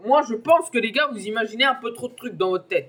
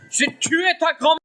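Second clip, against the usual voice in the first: playful yell; 10 semitones higher, 6 dB louder than usual. Pretend. Yelling at opponent in game.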